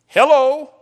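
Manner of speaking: high, loud, slow shouted climax; preaching shout. Real, not acted. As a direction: hammer it home from the pulpit.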